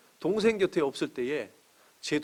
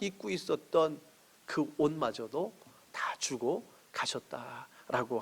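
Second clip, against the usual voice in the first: slow, hushed whisper for emphasis; 6 dB quieter, slower than usual. Acted. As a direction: lean in and whisper it slowly. (천천히 속삭이듯)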